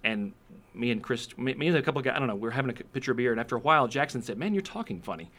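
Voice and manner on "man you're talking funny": lightly mocked, higher-pitched puzzled friend. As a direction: quote a buddy noticing something odd, pitched up. Retold friend puzzled by his accent.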